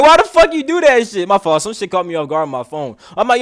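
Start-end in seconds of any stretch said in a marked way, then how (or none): 0.0-1.3 high, loud, half-laughing disbelief; incredulous outburst. Retold or imitated. Retelling finding the hickey in the mirror, loud disbelief. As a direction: throw the question out, amused and outraged.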